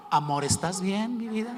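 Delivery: husband mimics wife's tender question; imitating his wife. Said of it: "si hubiera sido Mari".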